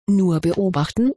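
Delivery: lightly voiced angry grumble; mildly cross, grumbled question. A narrator's reading. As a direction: grumble it with a touch of menace. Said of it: "brummte Knarr böse".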